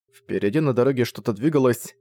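ordinary delivery, nothing marked

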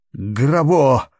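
high, loud wailing call; yelling a name. Acted. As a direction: yell the name in terror. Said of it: "завопил Перкен".

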